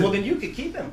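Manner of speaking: laughing through the line. Retold or imitated. Dad retelling his reply to the hospital clerk, laughing. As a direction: chuckle as you say it.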